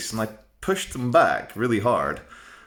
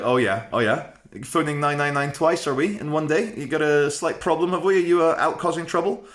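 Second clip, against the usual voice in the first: mocking, higher condescending cop voice; 6 semitones higher than usual. Young cops talking down to the caller, mock condescension. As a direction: talk down like a smug young cop. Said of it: "they were like".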